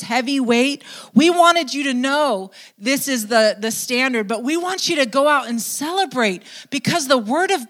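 a hint of leaders rallying the crowd; leaders urging joy. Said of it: "the leaders tell them".

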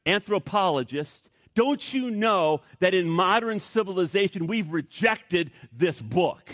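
hammed-up scornful pronouncement; scoffing boast. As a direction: play a boastful scholar scoffing, slowing on each dismissal. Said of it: "The man scoffed, and he boasted".

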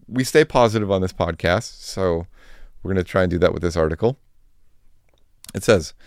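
talking with a dry mouth; words sticking in a parched mouth. Real, not acted. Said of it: "my mouth is so dry".

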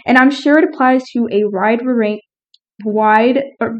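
slurred by a retainer; talking with retainer. Real, not acted. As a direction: speak around a dental retainer. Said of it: "I'm wearing my retainer".

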